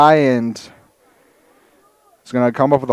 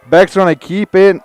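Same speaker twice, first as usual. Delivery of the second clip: louder, higher call as he breaks free; excited play-by-play; 4 semitones higher, 3 dB louder than usual. Real, not acted. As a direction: build up as the runner breaks the tackle. Live call of a big run.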